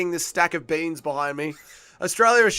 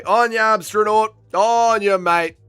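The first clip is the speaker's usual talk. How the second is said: loud, raised shout of praise; excited cheering; 6 semitones higher, 6 dB louder, slower than usual. Real, not acted. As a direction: cheer your countryman on. Cheering the winning fighter.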